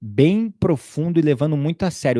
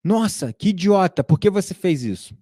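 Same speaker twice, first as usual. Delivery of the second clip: inner critic voice; 5 semitones higher than usual. Retold or imitated. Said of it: "veio uma voz assim na hora".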